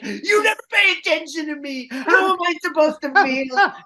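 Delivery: high, loud, tearful accusation; acted crying rant. Fake wife on radio wailing back at him: high tearful rant. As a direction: wail like a neglected wife. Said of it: "she'd be like".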